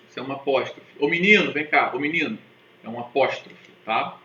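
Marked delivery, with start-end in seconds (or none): 1.0-2.4 put-on loud call to a boy across the room. Shown as a demonstration. Teacher demonstrating a call to a boy, loud. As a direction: call the kid over, raised voice. Example of calling someone over.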